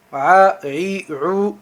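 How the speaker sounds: A, i, ru articulés depuis la gorge; modèle à répéter par les élèves; voyelles du ayn. Shown as a demonstration. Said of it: "entraînez-vous à prononcer". (ayn prononcé pour l'exercice)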